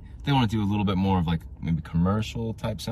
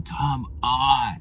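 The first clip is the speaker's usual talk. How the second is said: half-voiced imitation of a scream, higher; mock scream; 5 semitones higher than usual. Stranded driver screaming on the roadside, mock strained yell. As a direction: act out a strained yell without full volume. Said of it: "on the side of the road screaming".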